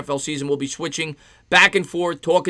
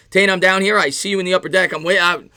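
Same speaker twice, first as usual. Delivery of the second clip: normal talking voice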